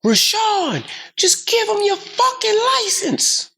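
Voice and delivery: very high, slow imitated yell; dad yelling. Dad yells at his son through the speakerphone. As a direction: holler it at your son. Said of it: "So my dad is yelling".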